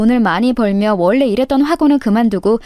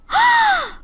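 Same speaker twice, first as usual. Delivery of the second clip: a high, theatrical gasp of surprise; mock gasp. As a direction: gasp as if stunned to see her. 놀란 척하는 동창. (과장된 헉 소리)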